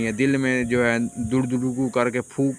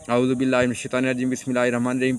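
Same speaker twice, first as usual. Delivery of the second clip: quick recitation; much faster than usual. Shown as a demonstration. Recites ta'awwuz and bismillah.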